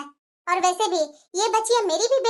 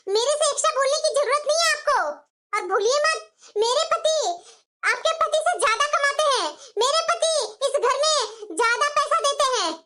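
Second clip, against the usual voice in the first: arrogant boasting; 3 semitones higher than usual. Acted. Younger bahu boasts, laughing scornfully.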